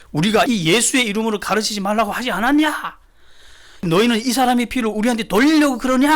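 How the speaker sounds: high-pitched scolding, acted out; stern rebuke. High priests sternly rebuking the apostles on trial, acted rebuke. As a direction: hammer it out as an indignant accusation. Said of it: "추상같이 호령을 하죠".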